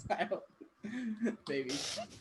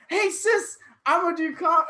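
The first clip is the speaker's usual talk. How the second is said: higher, mock-eager little-sibling call; eager announcement; 7 semitones higher, 4 dB louder than usual. Sibling telling sis the new plan, eager announcement.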